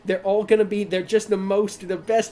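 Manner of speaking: chatty New York host; New York accent. Acted. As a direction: pitch the place like a New Yorker. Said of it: "We're gonna do New York".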